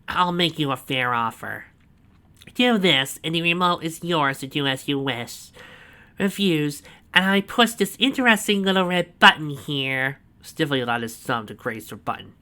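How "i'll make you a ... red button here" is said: proud villain boast. A narrator's reading. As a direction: savour every word of the boast. Snively's voice.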